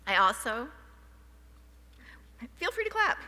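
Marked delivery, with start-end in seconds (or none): 2.6-3.3 laughing. Real, not acted. Laughing invites applause, voice jumps high.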